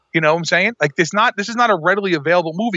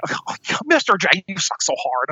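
whiny voice; 3 semitones higher than usual. Retold or imitated. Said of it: "that's my whiny voice".

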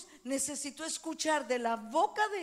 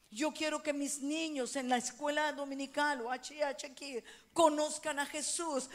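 normal talking voice

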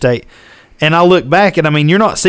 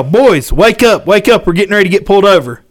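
yelling; 4 semitones higher than usual. Retold or imitated. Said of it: "And so I yell".

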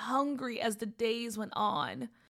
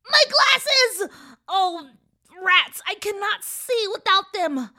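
dismayed cry; 8 semitones higher, 10 dB louder than usual. Acted. Witch loses her glasses.

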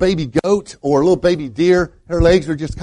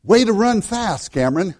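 coach yelling out; 5 semitones higher than usual. Retold or imitated. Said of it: "what he did was yell out".

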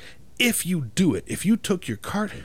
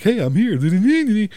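a slow, much louder, much higher chirpy "Hey, I'm here"; overeager arrival; 9 semitones higher, 8 dB louder, much slower than usual. Retold or imitated. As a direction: sing it out like you're proud to be an hour early.

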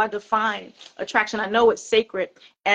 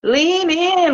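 cheering; 6 semitones higher, 5 dB louder, much slower than usual. Acted. Cheering her on.

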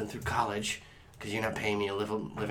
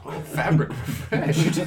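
dazed breathy voice; 2 semitones higher, 6 dB louder, slower than usual. Acted. Numbed secretary, dazed reaction.

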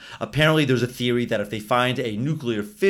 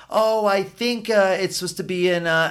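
quoting the woman; 6 semitones higher than usual. Retold or imitated. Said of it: "and she says".

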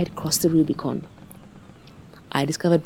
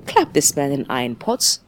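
aggressive shout. Acted. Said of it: "I shouted in an aggressive a tone".

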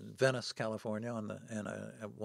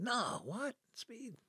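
high-pitched mock disbelief; incredulous dismissal; much slower than usual. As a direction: scoff back high, imitating his disbelief. Retelling the man scoffing back.

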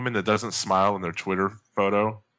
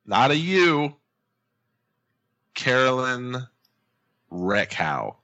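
announcer intro; 5 semitones higher, slower than usual. Pretend. Announcer-style guest introduction.

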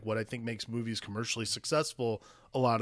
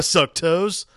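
loud hype cheer; excited shout; 5 semitones higher, 10 dB louder than usual. Retold or imitated. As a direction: yell it like a fan. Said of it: "and just go".

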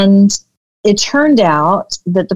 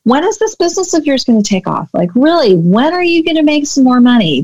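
higher, fast, pushy nagging; nagging husband; 7 semitones higher, faster than usual. Retold or imitated. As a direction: needle her about money, quickly. Husband pressuring her about money.

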